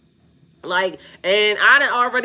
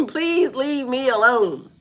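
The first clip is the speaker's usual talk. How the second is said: slow, sweet mock plea; drawn-out polite please; 3 semitones higher, slower than usual. Shown as a demonstration. Laughing streamer drawls a sugary please leave me alone. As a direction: ask her sweetly to leave you alone, taking it slow. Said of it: "me saying, "Please leave me alone".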